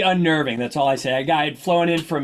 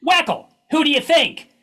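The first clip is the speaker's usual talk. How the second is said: wry response; 12 semitones higher, 4 dB louder, slower than usual. Retold or imitated. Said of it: "in his wry response".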